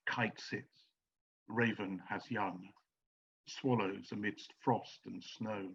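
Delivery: slow, soft reading of verse; hushed, measured verse reading; poem reading. Shown as a demonstration. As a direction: let each image hang, slowly and quietly. Reading a short nature verse.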